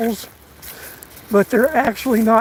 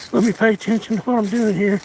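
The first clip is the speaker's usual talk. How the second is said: out of breath; faster than usual. Real, not acted. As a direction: speak between breaths. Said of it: "A little out of breath".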